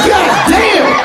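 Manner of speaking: very high, shocked "God damn"; high shocked exclamation. Retold or imitated. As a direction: blurt it out in disbelief. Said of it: "I'm like".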